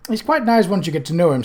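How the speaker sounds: quick, defensive reply. Acted. Isabel defends her father to Cutwell, quick and defensive. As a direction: rush to defend him. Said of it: "said Isabel defensively".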